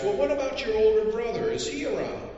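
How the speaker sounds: high, polite official voice; fussy census taker. Acted. Census taker asking a mountain boy, in a high polite voice.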